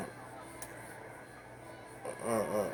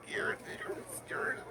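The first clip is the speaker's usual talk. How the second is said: much higher and louder, laughing scream into whisper; mock terrified shriek; 7 dB louder, slower than usual. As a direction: shriek like she's terrified of the mirror, then fade. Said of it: "And she said".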